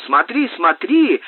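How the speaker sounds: urgent, lightly shouted pointing out; shouting. Acted. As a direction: call out to make him look. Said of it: "закричало вдруг это страшилище".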